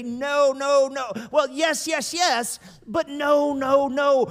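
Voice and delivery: emphatic high no. Acted. Preacher emphatic denial.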